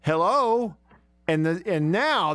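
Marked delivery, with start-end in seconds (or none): 0.0-0.8 questioning hello. Retold or imitated. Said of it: "she went".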